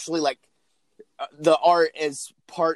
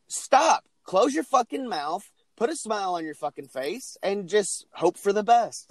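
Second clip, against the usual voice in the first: raised, higher, slowed-down telling-off; exasperated mock order; 5 semitones higher than usual. To YouTubers with shocked faces, a raised, slow scolding. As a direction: snap at the shocked faces in the videos, slow and pointed. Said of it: "I'm like".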